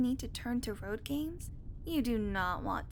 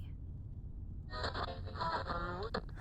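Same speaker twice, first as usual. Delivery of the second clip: sigh; 6 semitones higher, 6 dB quieter than usual. Acted. Loud breath between remarks.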